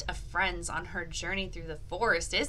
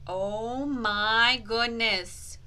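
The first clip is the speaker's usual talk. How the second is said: drawn out slowly in wonder; slow amazement; 4 dB louder, much slower than usual. Acted. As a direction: stretch it out, astonished.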